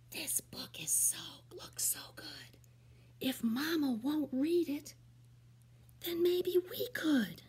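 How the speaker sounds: secret whisper among monkeys. Acted. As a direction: whisper so Mama won't hear. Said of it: "One monkey whispers".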